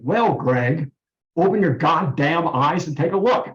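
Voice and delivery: imitated loud voice. Unseen voice telling the patient to wake up, mock loud command. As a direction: imitate a voice ordering someone awake, without shouting. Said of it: "this voice very loudly saying".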